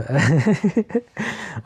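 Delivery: a high giggle she can't explain; laughing. Real, not acted. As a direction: giggle helplessly, for real. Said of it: "I don't know why I'm laughing".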